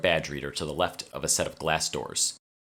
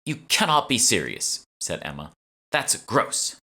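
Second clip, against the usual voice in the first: high, louder mock disgust; disgusted disbelief; 6 semitones higher, 4 dB louder, slower than usual. A narrator's reading. Emma hearing about ground-up mummies, loud disgusted voice. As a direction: recoil at the mummies.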